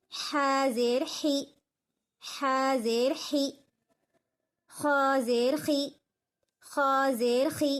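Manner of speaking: slow, even syllable chant; sing-song recitation of Arabic spelling; Quran reading drill. Shown as a demonstration. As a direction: spell each letter out like a Qaida teacher.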